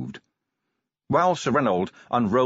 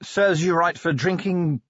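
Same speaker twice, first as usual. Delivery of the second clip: malicious; 7 semitones higher, much slower than usual. A narrator's reading. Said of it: "said Angua maliciously".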